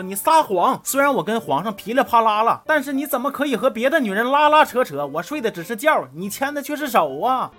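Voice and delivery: overacted girlfriend telling off a cheat; mock indignant outburst. 昭君 accusing her boyfriend. (夸张地质问渣男男票)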